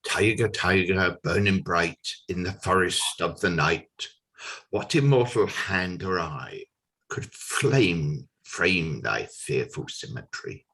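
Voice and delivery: measured dramatic verse, falling at the close; poem recitation. Acted. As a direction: declaim the opening verse at full voice.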